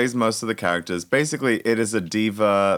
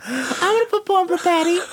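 high, laughing squeal; laughing through words. Real, not acted. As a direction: say it while cracking up. Laughing about the show.

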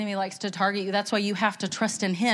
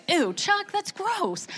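higher, slow, drawn-out ew of disgust; 8 semitones higher, 3 dB quieter, much slower than usual. Real, not acted. Speaker teases Chuck about liking liver, slow and disgusted. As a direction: pull a face at liver, grossed out.

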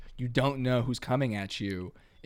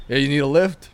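lightly voiced cab driver offering a ride; a touch of a gruff cabbie; casual cabbie, a little louder; 9 dB louder than usual. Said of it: "The cab goes".

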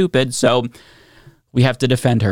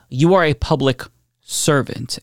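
"servant" leaned on, slow and deliberate; stress on servant. Real, not acted. To Nancy Pelosi, stressing that she serves: slow, "servant" weighted. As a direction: spell out that "servant" is the key word, said slowly. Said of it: "emphasis on the servant".

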